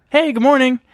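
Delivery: high, cheerful, oblivious greeting; breezy good morning. Retold or imitated. Roommate voicing her friend's clueless morning greeting, high and cheerful. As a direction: chirp it like nothing happened. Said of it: "And she's like".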